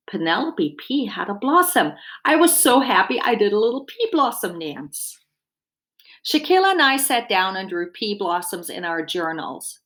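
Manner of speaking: lively picture-book read-aloud; reading to children. A narrator's reading. Dietitian reading a garden story to children, lively storytelling. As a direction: read it warmly to a class of kids.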